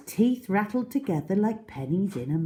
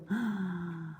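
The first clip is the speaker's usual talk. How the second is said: frightened gasp; 3 semitones higher, 7 dB quieter than usual. A narrator's reading. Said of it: "gave a shriek of terror".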